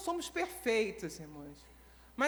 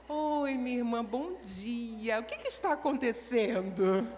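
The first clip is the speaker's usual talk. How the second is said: loving; slower than usual. Acted. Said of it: "cheia de amor".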